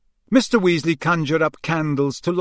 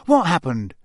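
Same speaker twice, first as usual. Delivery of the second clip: eager; 3 semitones higher, 3 dB louder than usual. Acted. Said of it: "said Harry eagerly".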